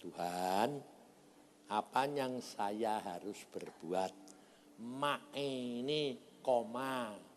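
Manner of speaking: hushed, unhurried asking; retold prayer. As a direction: pray softly, drawing the words out. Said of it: "saya berdoa".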